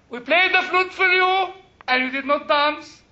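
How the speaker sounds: quoting Jesus to the class with a touch of mockery; mock sarcastic quote. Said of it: "this is sarcasm".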